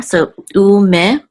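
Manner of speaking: u me drawn out slowly, syllable by syllable; sounding it out. Shown as a demonstration. Teacher sounding out the word for the class. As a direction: break u me into slow syllables. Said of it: "I'm gonna sound it here".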